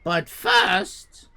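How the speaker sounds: very high, loud shouting owner; furious owner. Retold or imitated. Owner yelling at customers to order lasagna. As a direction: scream it like a furious restaurateur. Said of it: "owner insists".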